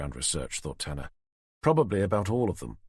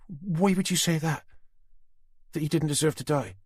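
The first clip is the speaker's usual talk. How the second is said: menacing captor; 7 semitones higher than usual. A narrator's reading. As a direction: taunt him, savoring the threat. Susan confused by Tanner.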